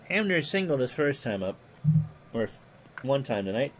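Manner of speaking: lightly voiced old radio play-by-play; a hint of a veteran baseball announcer; Ron Juckett impression. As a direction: call it like a ballpark broadcaster, easy and even. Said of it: "I do a mean Ron Juckett impersonation".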